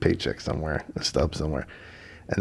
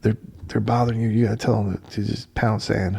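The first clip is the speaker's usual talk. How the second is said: lightly voiced radio host, a touch higher; casually urging caller to push back; radio host advising a caller; 4 semitones higher than usual. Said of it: "he's telling a lady".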